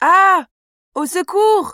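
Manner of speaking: sudden, startled cry of alarm, frightened. Spotting a big spider on the sofa, crying out for help. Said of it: "Pourquoi tu cries comme ça".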